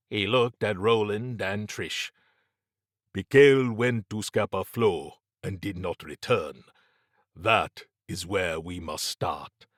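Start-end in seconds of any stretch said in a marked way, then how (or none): 3.1-9.7 measured, formal warning; lightly voiced Mabati, foreboding. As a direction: lightly play a grave adviser explaining the threat.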